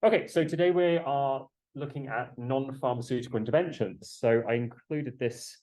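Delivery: muffled behind a mask; talking through a mask; through a face mask. Real, not acted. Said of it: "I am currently wearing a mask right now".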